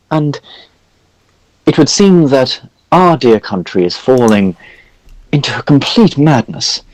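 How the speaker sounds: put-on high, fussy old priest voice; jolly priest NPC. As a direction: play a pompous, chatty cleric. High priest explains the war.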